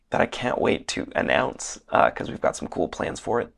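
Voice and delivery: losing voice, hoarse and strained; worn-out voice from a weekend of shouting. Real, not acted. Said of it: "I feel myself losing my voice".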